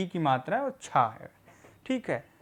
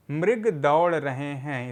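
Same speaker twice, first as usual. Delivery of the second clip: slow careful reading. Shown as a demonstration. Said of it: "इसका उच्चारण होगा".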